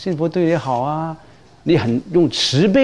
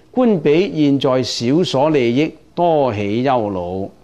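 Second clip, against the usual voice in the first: slow, measured reading of the sutra line; scripture recitation; slower than usual. Acted. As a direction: intone it slowly, phrase by phrase. Recites the precept text. (缓慢诵读经文)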